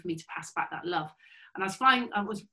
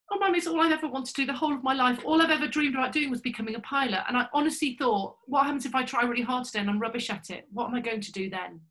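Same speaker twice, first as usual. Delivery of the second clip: put-on earnest teen; 5 semitones higher than usual. Cadet pouring out her heart.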